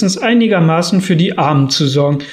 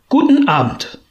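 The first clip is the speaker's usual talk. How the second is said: put-on a higher, odd old-miser voice on the goodbye; curt dismissal; 8 semitones higher than usual. A narrator's reading. Scrooge dismissing his nephew, curt higher voice. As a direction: shut the nephew down with a sharp farewell.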